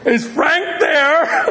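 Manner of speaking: high, slow questioning lilt; mock-innocent phone caller. Dad redials the same number, high mock-innocent voice. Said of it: "So he tapped it out again".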